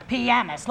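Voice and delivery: Pianist said PI-anist with the weight on the first syllable; stress on first syllable. Shown as a demonstration. Host corrects co-host's pronunciation: PI-anist, first syllable stressed. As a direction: lean on the start: PI-anist. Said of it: "the emphasis is on the first syllable".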